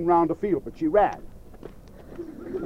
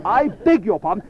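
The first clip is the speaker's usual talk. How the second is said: laughing; 3 semitones higher, 3 dB louder than usual. Acted. Doctor startled by cow's meow.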